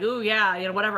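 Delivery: plain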